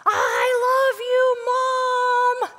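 put-on high, drawn-out child's holler; imitating a kid's full-volume shout; top-of-lungs yell. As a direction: yell it out slowly to Mom across a crowd. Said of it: "he yelled at the top of his lungs".

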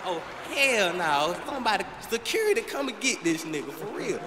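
loud, high call for security; horrified yell. Retold or imitated. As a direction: shout for security in mock horror. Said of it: "I like".

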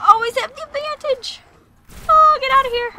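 high, loud combat holler; worked-up yell. Pretend. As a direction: shout the enemy away. Yelling at enemies in fight.

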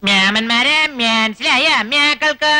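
slow, drawn-out Namboothiri dialect; Namboothiri accent. Shown as a demonstration. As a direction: ask it in Namboothiri-style Malayalam. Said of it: "നമ്പൂരി ഭാഷ ചോദിക്കണം".

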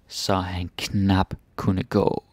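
very slow, with "knap" leaned on. Shown as a demonstration. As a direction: drag it out and press "knap".

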